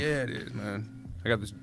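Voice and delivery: words muffled by gum; chewing gum. Real, not acted. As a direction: talk while chewing gum. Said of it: "it's hard to talk with gum in your mouth".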